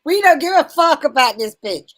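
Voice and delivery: high, loud blurt; high-pitched outburst. Real, not acted. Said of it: "At a high pitch, too".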